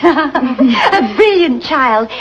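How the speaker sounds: slow and laughing, covering up. Acted. The mistress laughs away her son's poor French. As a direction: laugh off the embarrassment.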